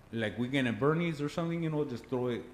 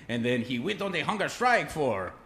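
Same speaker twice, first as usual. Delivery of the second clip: usual speaking voice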